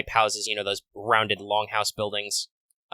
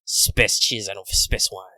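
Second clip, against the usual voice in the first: put-on French accent; 3 semitones lower, slower than usual. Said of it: "I don't know if I can do a very good French accent".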